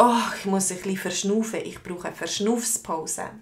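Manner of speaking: hurried mock-winded gasp, falling away; acting out of breath. Teacher acting out someone needing a breather, mock out of breath. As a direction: pretend to be puffed after sport. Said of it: "dann kommst du so ausser Atem".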